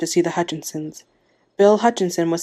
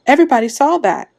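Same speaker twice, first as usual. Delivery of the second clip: high, louder burst of protest; indignant outburst; 8 semitones higher, 6 dB louder than usual. A narrator's reading. Wife appealing to the crowd as witnesses, indignant outburst. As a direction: pitch it up in exasperation.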